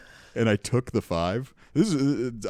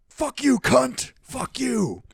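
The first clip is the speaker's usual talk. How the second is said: high, loud mock yell of abuse; imitated screaming; 7 dB louder, much slower than usual. Homeless man screaming at a passing woman, high and loud. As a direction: hurl the curses at a passer-by.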